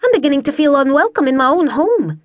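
high, affronted lady of the house; indignant lady. Acted. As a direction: complain haughtily, pitched well up. Bella scolds the men.

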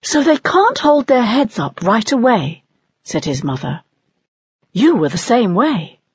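lightly lifted patient mother; mother owl voice. Acted. Mother owl explaining chicks to Soren, pitched high.

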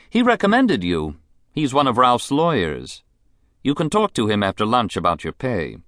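high, languid society woman; a spoiled, bored rich lady; rich invalid wife. Acted. Mrs Sampson voice.

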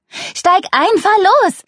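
high, urgent shouted command; frantic, high-pitched bark; barked order. A narrator's reading. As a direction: order the driver sharply to get going. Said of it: "herrschte Luna ihn an".

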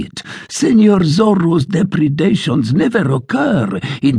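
mildly hammed-up blustering sergeant; a boastful soldier working himself up; ranting tirade. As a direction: sergeant ranting to the tavern about Zorro. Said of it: "continued his tirade".

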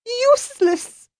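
high, slow, upset French lady; French accent, crying out indignantly. Acted. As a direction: pour out outrage in a French accent. Nanette's outburst.

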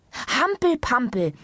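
high, drawn-out call. A narrator's reading. Doctor ending her list of sports, calling out. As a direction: call out "Hampel-Pampel" slowly as the triumphant last item. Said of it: "rief indessen die Ärztin im Behandlungszimmer".

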